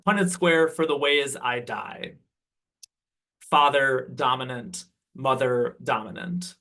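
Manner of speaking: measured poem reading with long pauses; poetry recital. Acted. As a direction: announce the title, then recite deliberately. Begins reading the next poem.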